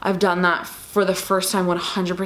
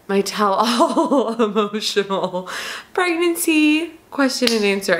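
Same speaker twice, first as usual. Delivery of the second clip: crying, half laughing; 2 semitones higher, slower than usual. Real, not acted. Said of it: "Me crying my eyes out".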